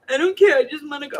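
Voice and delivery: put-on high, loud child's insistence; insistent little granddaughter. Granddaughter insisting on going somewhere, high child's voice. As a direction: demand it like a small child.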